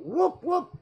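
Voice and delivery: high double whoop; a quick imitation siren; mock police whoop. Mimics thought-police alarm at message.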